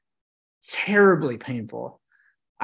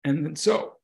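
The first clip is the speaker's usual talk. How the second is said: hiccups. Real, not acted. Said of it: "sorry, I had the hiccups".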